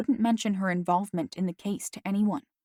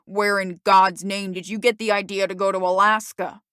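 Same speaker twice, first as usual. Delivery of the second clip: angry father; 5 dB louder than usual. Acted.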